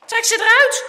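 high, very loud command; startled yell at a friend; alarmed shout. A narrator's reading. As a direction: shout a sudden urgent order. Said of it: "schreeuwt hij".

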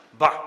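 loud disgusted grunt; disgusted bah. A narrator's reading. Dirk walking home in the drizzle, disgusted bah.

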